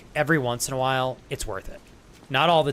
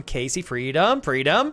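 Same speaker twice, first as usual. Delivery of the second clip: cheering; 2 semitones higher, 5 dB louder, slower than usual. Real, not acted. Keeps cheering to Casey.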